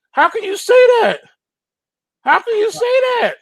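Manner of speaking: can't believe it; incredulous. Real, not acted. Incredulous repeated question.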